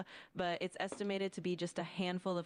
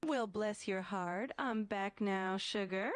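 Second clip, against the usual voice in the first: Southern drawl; 2 semitones higher, slower than usual. Pretend. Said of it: "sweet Southern lady".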